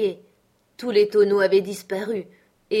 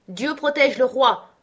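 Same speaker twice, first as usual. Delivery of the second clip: raised, higher-pitched cheer; triumphant exclamation; 5 semitones higher, 4 dB louder than usual. A narrator's reading. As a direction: proclaim it like a rallying cry. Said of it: "m'exclamai-je en agitant mon bonnet". (exclamation triomphante, voix plus haute)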